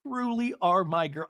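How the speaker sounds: slow, overdone mock sincerity; lightly imitated dramatic declaration; Lexi. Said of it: "take it down all the notches".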